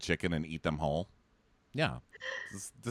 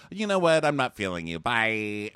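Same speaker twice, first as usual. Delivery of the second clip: mock breezy dismissal; 4 dB louder than usual. Bachelorette cutting a suitor, mock breezy dismissal. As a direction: pitch it up as a pretend brush-off. Imitates contestant dismissing someone.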